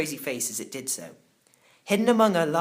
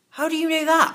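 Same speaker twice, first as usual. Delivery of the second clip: surprised question; 13 semitones higher, 5 dB louder than usual. Acted. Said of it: "I asked".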